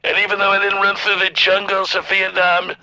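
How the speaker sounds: lightly voiced Trump, boastful and deliberate; a hint of Trump bragging to the crowd; Trump impression. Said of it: "Right, Fake Trump?".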